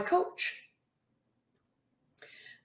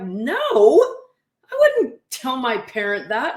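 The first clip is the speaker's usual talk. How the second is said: imitating an athlete; 6 dB louder, slower than usual. Athlete's reply, retold by coach.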